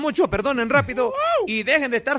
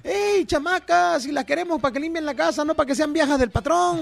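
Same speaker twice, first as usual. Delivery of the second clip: scolding matron; 5 semitones higher than usual. Retold or imitated. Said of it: "quoting a scolding to maids".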